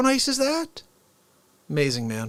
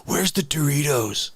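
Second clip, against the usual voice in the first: Keanu Reeves impression; 3 semitones lower than usual. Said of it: "Keanu Reeves".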